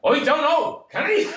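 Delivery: high laughing mock of a barman. Barman mocks the young pianist, high laughing voice.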